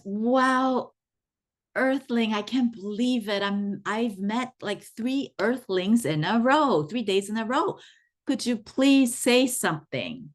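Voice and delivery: high, eager, breathless alien wonder; thrilled alien. Acted. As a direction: gush like an amazed alien tourist. ET thrilled at third earthling.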